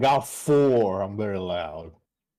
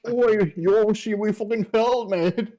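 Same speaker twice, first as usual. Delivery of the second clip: mock British; 10 semitones higher, slower than usual. Player character calling up to guards, mock cockney. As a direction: yell it like a London lad. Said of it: "I can communicate".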